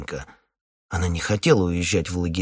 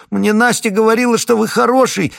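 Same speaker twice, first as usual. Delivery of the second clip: put-on high, louder child's whine; whimpering child; 8 dB louder than usual. Little boy whines to the captain for his dad. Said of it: "захныкал с палатей Прошка".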